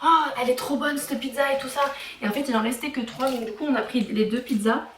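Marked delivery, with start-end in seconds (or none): 0.0-1.8 imitated delighted employee. Employee raving to a customer about the returned pizza, imitated excitement. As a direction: act out someone thrilled by a find. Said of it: "un des employés nous a dit".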